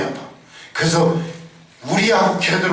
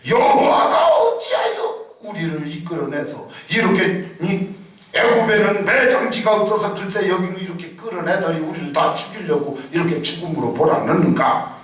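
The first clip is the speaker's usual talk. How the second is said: mock complaint. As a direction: whine it out as a bitter crowd. Israelites complaining against God. (불평하는 백성 흉내)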